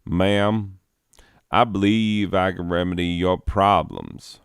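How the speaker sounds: a lightly voiced Southern drawl for the tall stranger. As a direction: play a polite Southern gentleman, only a hint of the accent. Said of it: "thick southern drawl".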